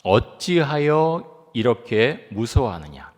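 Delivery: slow, deliberate rebuke; slow emphatic question. Retold or imitated. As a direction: draw out each word slowly. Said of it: "첫 번째 뭐라고 말씀하십니까".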